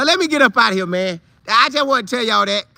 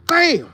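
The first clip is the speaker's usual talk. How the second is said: hit sound; 7 semitones higher than usual. Retold or imitated. Imitating the big hit.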